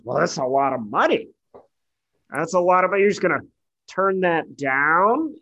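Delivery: pushy, rising disbelief; mock judge needling about the money; incredulous judge. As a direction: press him like a scornful judge. Judge pressing Frankie on money.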